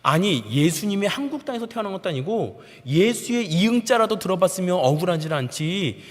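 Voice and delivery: high, heated protest building to loud; indignant senior soldier's mounting tirade; angry outburst. Retold or imitated. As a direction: argue indignantly, rising to a yell. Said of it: "라고 저한테 화를 내더라고요".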